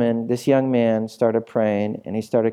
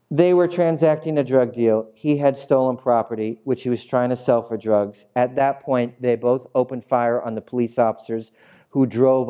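lightly voiced officer reciting a report; police officer reading report; 3 semitones lower than usual. Officer reads out incident report.

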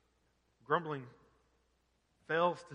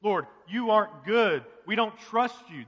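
grumbling accusation; 3 semitones higher, 8 dB louder than usual. Retold or imitated. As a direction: voice the people's angry grumbling at God, louder. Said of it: "That's what they're saying".

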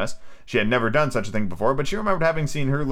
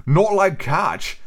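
high, drawn-out slurred squawk; shrill storybook mouse; shrill, passionate mouse; 7 semitones higher, 3 dB louder, much slower than usual. A narrator's reading. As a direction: cry it as an indignant little mouse. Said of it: "in a shrill, passionate voice".

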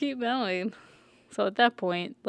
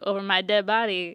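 louder gruff mock defiance; mock defiant; 5 dB louder than usual. The Hound refuses Brienne, a mock defiant retort. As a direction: dare her to try. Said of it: "the Hound's like".

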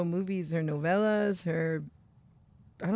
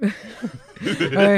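normal talking voice

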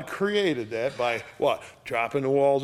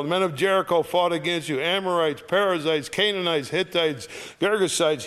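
scripture reading; 2 semitones higher than usual. Acted. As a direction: proclaim the verses to the congregation. Reads scripture aloud.

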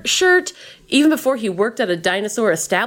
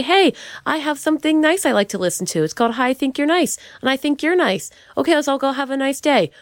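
role-played neighbor; 5 semitones higher, faster than usual. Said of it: "Role played it".

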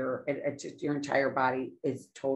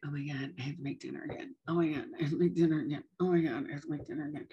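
exasperated rant; much faster than usual. Retold or imitated. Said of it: "I'd be like".

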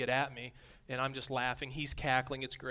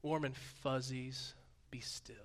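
soft, slow, whispered be still; a soft mock of the sentimental reading; mock soft coo; 7 dB quieter, slower than usual. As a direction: coo it like a cozy greeting card. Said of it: "not like".

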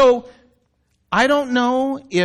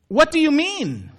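high, baffled exclamation; a confused Nicodemus, pitched up; exclaiming; 7 semitones higher than usual. Retold or imitated. Nicodemus to Jesus, confused and exclaiming high. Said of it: "exclaimed Nicodemus".

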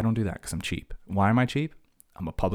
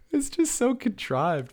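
much higher, slow, mocking sing-song; contrived mock voice; slower than usual. Real, not acted. Ranting about contrived NPR talk, high slow mockery. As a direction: stretch it out high in disbelief.

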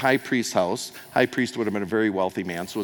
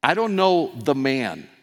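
impersonal denial; 3 semitones higher, 4 dB louder than usual. Acted. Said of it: "Makes it impersonal".

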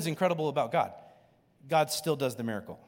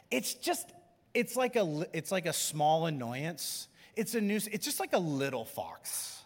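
cutesy; 6 semitones higher than usual. Acted. Habit pictured as cute fox.

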